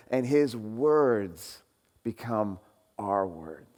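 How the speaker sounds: earnest preaching. Acted. Pastor urging the congregation to follow Jesus, slow and earnest. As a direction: let each phrase land slowly and fade. Slowing sermon climax.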